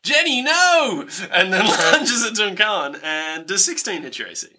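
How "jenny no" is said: high, drawn-out desperate yell; yelled cry. Acted. Boy yelling to his fallen sister, high and drawn out. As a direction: cry her name out in despair. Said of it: "he yells out".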